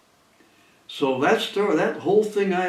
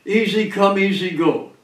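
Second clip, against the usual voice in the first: mild mock yell, higher at the start; retold yelling; 5 semitones higher, 3 dB louder than usual. Ruined gambler staggering out of the place, mildly yelled. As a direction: call it out, lightly imitating a beaten gambler. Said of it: "he kept yelling".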